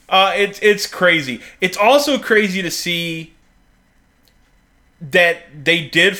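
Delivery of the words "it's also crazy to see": ordinary talk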